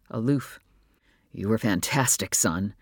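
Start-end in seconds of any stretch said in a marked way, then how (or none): 1.3-2.7 proud father. Acted. Father praises son.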